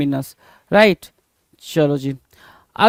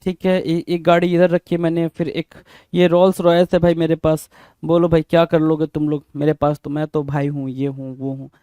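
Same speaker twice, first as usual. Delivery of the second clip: mock show-off; 4 semitones lower than usual. Show-off listing his jet and cars to friends, low mock boasting. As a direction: lightly act a boaster playing it cool. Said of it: "दिखावा करने in the sense, जैसे देख लो भाई".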